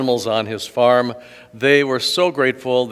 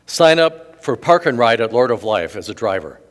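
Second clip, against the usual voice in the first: louder, a hammed-up church plug; mock announcement; 7 dB louder than usual. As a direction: pretend Jesus pitching the parish carpool. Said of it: "No, no, that's not what he said".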